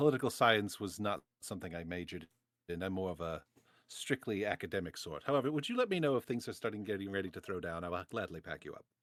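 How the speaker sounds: hushed, quiet, confiding aside, close up. Leaning toward the warlock in character, admitting confusion: speaking quietly. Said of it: "I'm saying this quietly".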